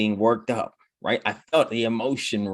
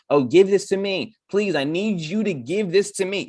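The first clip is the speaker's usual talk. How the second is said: imitating a whiny victim begging; mock pleading, high and far from own voice; needy pleading; 8 semitones higher than usual. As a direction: plead like someone who wants it handed to them.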